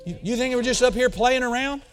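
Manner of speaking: high, fired-up preacher scolding the congregation; hammed-up imitation of an intense pastor; imitating his pastor. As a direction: preach it like your fiery mentor. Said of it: "Can you tell I've been around my man of God".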